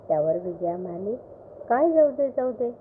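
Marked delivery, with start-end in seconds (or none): 1.7-2.7 higher, pushy; insistent wife. A narrator's reading. Wife pushing husband for the secret, mildly insistent. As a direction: press him, half-teasing.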